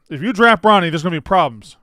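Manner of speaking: hammed-up warning; mock threatening. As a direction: play an agent bluffing a threat. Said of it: "trying to be threatening".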